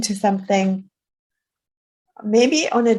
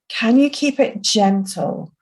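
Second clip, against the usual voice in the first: whispered. Shown as a demonstration. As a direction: breathe the question in a whisper. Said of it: "Can you keep it soft?".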